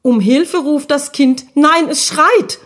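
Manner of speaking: high, urgent little ghost voice; excited. Acted. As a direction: blurt it out, alarmed. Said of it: "rief Guschuk ganz aufgeregt".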